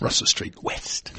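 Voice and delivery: Russell Street West in a light mock American accent, slowed down. Shown as a demonstration. Giving the ramen bar's address, in a mock American accent. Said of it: "it sounds very American, doesn't it, to talk like that?".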